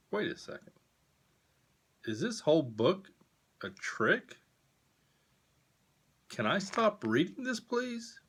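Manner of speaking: hammed-up whine; mock panic. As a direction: beg to stop, high and whiny. Reader pleads in mock panic.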